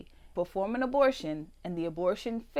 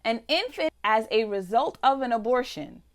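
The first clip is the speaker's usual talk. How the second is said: outraged reading; 3 semitones higher, 5 dB louder than usual. Real, not acted. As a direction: read it like an accusation. Building outraged reading of bill.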